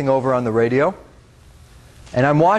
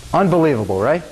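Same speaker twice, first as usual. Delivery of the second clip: "Unbelievable" with a wry, disbelieving fall; dry amazement at the irony; ironic disbelief; 2 semitones higher than usual. Real, not acted. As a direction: invite the audience to share the irony. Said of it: "find the irony and laugh".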